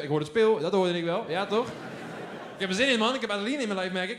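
put-on loud excited kid, keen to play; a little boy hearing the word play, fired up; excited child. Excited child hears "speel. (opgewonden kind, luid)

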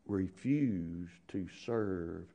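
soft, slow, fading to a whisper; hushed final plea; quiet urging. Real, not acted. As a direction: press it home in a hush. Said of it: "sermon ends softly".

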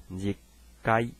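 日 该 on a level tone, without a fall; flat pitch accent. Shown as a demonstration. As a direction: say 日 该 evenly, level to the end. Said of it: "一般是念平板".

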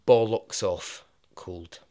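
slow, punchy delivery; slow and loud for comic effect; emphatic punchline. Real, not acted. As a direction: lean hard into the punchline. Punchline about the freezing cold.

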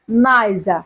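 নাইজা with no final r. Shown as a demonstration. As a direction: say নাইজা low, falling onto an open "aa" without r. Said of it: "আর এর উচ্চারণ".

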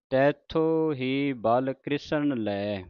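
drawn-out devotional reading, line by line; slow scripture recitation. Shown as a demonstration. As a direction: recite it slowly like Gurbani santhiya. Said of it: "ਇੱਥੇ ਵਿਸਰਾਮ ਹੈ". (ਹੌਲੀ ਹੌਲੀ ਪਾਠ ਦਾ ਉਚਾਰਨ)

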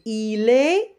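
"il est" drawn out, T left silent. Shown as a demonstration. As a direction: hold "est" open with no final T. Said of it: "on ne le prononce pas".

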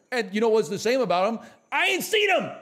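fast, high shouting punchline; loud rant. Acted. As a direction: yell it like a mock outrage. Ranting about anime he never watched.

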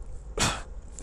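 mock throat-clearing before singing; a singer testing a failing voice; diva clearing throat. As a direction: clear your throat for show. Diva whose voice goes bad.

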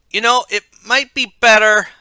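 put-on high, loud young man's voice; high shout. A narrator's reading. Michael calls out while turning the doorknob, high shout.

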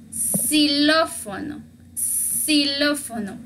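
"xilófono" slowly, starting with an s sound; X read as S. Shown as a demonstration. Teacher showing how X is read in an example word, X as S. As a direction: stretch "xilófono" out as si-LÓ-fo-no. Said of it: "otra entonación, otra pronunciación".

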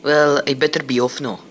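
a hint of a Scottish brogue; strong Scottish accent. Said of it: "The newcomer spoke with a strong Scottish accent".

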